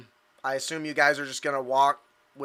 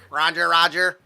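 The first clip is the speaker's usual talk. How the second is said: chirpy droid "Roger, roger"; battle droid voice; 2 semitones higher, 5 dB louder than usual. Acted. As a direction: answer like a droid. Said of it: "battle droids from Phantom Menace".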